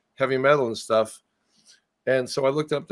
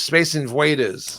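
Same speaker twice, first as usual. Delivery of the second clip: put-on Austrian accent; slower than usual. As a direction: Space Invaders drawn out slowly in an Austrian accent. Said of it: "but with the Austrian accent".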